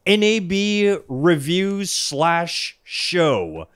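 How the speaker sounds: drawn-out, slow show introduction; slow announcer read. Acted. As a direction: stretch each word like a host.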